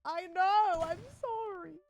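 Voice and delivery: put-on high baby-talk to a pet; sorry, sweet pet-parent voice; soothing a sick cat. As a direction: coo apologetically to the cat, slowing down at the end. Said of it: "and you're like".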